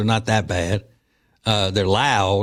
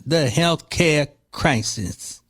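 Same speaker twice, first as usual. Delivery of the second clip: mock sneer; 4 semitones higher, slower than usual. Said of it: "mocking the Democrats' messaging".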